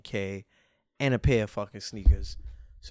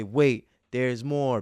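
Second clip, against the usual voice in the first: mild pitchman impression; a slightly louder, slowed infomercial line; Billy Mays; 5 dB louder, much slower than usual. Host teasing an extra prize, lightly imitated pitchman. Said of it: "Billy Mays' voice".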